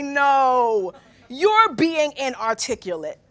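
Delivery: drawn-out "No", then a low reprimand; mock correction. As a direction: correct them with playful authority. Mock correcting professor on the block.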